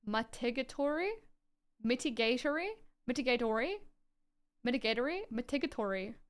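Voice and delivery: testing "Mitigatory" as mi-TI-ga-tory, then MI-ti-gay-tory, each with a questioning rise; sounding out "Mitigatory" several ways, unsure of the stress; trying out pronunciations. Shown as a demonstration. Alone while studying, sounding out "Mitigatory" several ways with a questioning rise. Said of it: "put the emphasis on the semi-penultimate".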